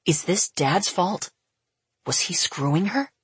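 measured, controlled questioning; forced calm. A narrator's reading. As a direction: ask it as calmly as you can manage. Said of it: "in the calmest voice he can manage".

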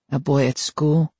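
small voice, eyes on the floor; shy boy voice. Acted. Boy character answers shyly.

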